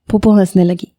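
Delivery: ordinary delivery, nothing marked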